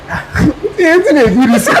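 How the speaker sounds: laughing through mock disbelief; amused, laughing reply. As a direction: giggle at the fuss. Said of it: "I'm like".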